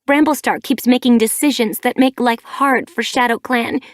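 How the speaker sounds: a daughter raging at her mother; rising rant. A narrator's reading. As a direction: pile accusation on accusation. Furious daughter rants at mother.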